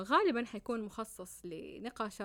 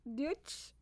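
German phrase; 4 semitones higher, slower than usual. Shown as a demonstration. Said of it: "يعني أنا أتحدث الألمانية".

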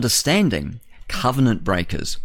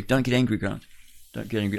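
softer self-soothing; calming himself down; 5 dB quieter, faster than usual. Real, not acted. Host telling himself to calm, softer murmur. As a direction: talk yourself down quietly. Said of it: "I'm getting angry".

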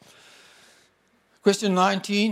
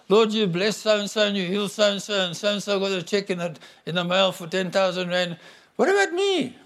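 mock whiny complaint; 2 semitones higher than usual. Mock complaining prayer to God.

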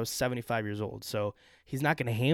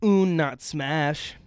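slow, louder caveman grunt; frat bro; 4 semitones higher, 6 dB louder, much slower than usual. Pretend. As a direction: drag out Un like a dim bro. Repeats own line as a grunt.

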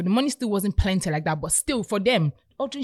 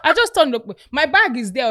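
laughing; 6 semitones higher, 7 dB louder than usual. Real, not acted. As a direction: talk through laughter. Laughing, telling the payback.

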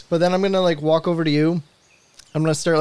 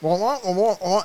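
wah wah gibberish; 4 semitones higher than usual. Acted. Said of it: "I'm just gonna speak like, uh, the adults in parents".

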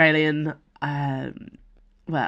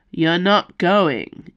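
slow, louder, flat refusal; firm snap; 6 dB louder, much slower than usual. Acted. Ikaros and Calix refusing Nimue together, a slow firm snap. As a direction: shut the idea down like a stern parent. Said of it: "Ikaros snapped".

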